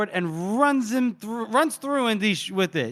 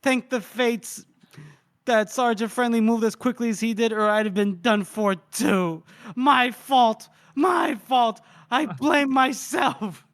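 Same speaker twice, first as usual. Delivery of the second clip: hammed-up lament; 4 semitones higher than usual. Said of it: "he goes".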